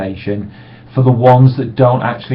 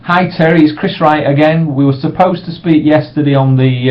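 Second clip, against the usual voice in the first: friendly voicemail. Shown as a demonstration. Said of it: "the way I do the second one".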